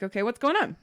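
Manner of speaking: imitating a friendly support agent, lifted pitch; retold cheery helpfulness; friendly help-desk voice. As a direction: play the polite tech asking what's up. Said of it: "he sounds super friendly".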